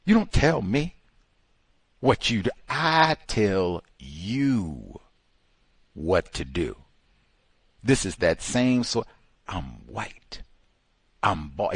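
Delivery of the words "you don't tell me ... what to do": lightly voiced bossy boss, I tell you drawn out very slowly; a hint of a domineering boss laying down the law; bossy boss quote. Boss telling a worker who gives orders, mild mock bossiness. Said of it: "where the boss said".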